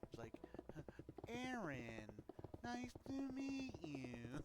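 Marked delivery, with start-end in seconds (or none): 1.3-4.4 high, slow robot voice; stiff, mechanical, drawn-out greeting; robotic Monica voice. Retold or imitated. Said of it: "gave her a, like, robotic voice".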